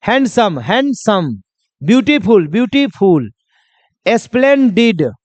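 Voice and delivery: "हैंडसम, ब्यूटीफुल, स्प्लेंडिड" each spoken in separate beats; teacher demonstrating the syllables of "हैंडसम, ब्यूटीफुल, स्प्लेंडिड"; syllables marked out. Shown as a demonstration. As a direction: mark the break inside "हैंडसम", "ब्यूटीफुल" and "स्प्लेंडिड". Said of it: "उच्चारण एक से ज्यादा बार में हुआ".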